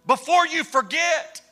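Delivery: high, urgent call to halt a crowd; preacher acting out an urgent interruption; calling out a warning. Man interrupts the celebrating crowd.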